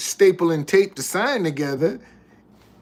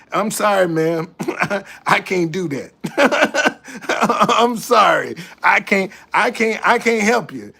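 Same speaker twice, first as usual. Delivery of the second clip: laughing refusal. Retold or imitated.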